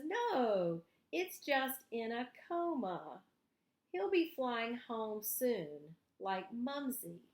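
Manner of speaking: put-on a child believing the bird will wake; hopeful Noel. Noel slowly reassures Valentine that the bird will fly home.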